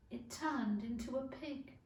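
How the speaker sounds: a soft, hushed reply; very quietly. Acted. Alice tells the Cat about the baby, very quietly. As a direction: say it quietly, half to herself. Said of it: "said Alice very quietly".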